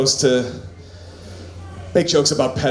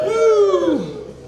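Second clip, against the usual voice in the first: hype woo. Real, not acted. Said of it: "hype cheer".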